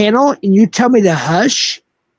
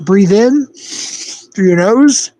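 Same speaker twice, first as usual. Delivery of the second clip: condescending calm-down; 2 semitones lower than usual. Pretend. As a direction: talk him down like a child. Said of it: "Don't tell me to breathe".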